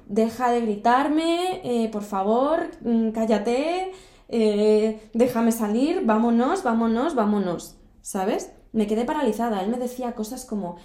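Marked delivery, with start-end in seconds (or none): 0.1-7.8 súplica asustada. Retold or imitated. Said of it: "estaba tan asustada".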